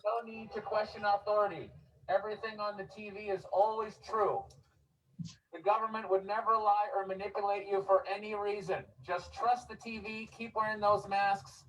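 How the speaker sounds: syrupy sarcastic reassurance to the crowd; sarcastic preacher soothing the public; mock reassuring. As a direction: lay on the fake sincerity like a friendly official. Sarcastic street speech mocking authority.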